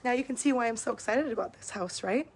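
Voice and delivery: slightly hoarse, tired voice; losing her voice from talking. Real, not acted. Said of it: "I'm losing my voice".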